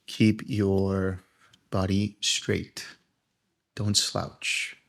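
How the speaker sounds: guided meditation. Acted. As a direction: lead them gently into relaxation, phrase by phrase.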